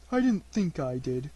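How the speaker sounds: mildly anxious protest; understated unease; anxiously. A narrator's reading. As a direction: say it with a touch of worry. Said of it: "said Pooh anxiously".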